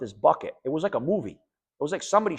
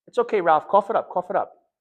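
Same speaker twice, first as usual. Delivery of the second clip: loud, higher coaxing; nurse urging; 6 semitones higher, 7 dB louder than usual. Retold or imitated. Nurse urging Ralph to cough the clot up, loud. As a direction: push him to cough it up. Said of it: "the nurse goes".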